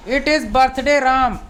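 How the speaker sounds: very slow, careful teacher reading; slow model sentence. Shown as a demonstration. Teacher reads the example sentence slowly to students. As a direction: spell it out word by word. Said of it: "इसको कैसे बोलेंगे".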